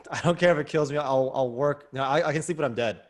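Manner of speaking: a touch of the stubborn father who won't stop working; mock determined father. Voicing a driven immigrant father.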